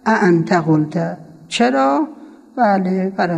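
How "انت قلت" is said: انت قلت slow with glottal start on انت; glottal form. Shown as a demonstration. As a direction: drag out انت قلت with a catch.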